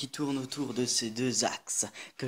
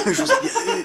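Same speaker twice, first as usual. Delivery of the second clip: much higher, teasing and triumphant; gleeful gotcha; 5 dB louder, much faster than usual. Pretend. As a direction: crow it like a prankster. Repeats the prank line gleefully.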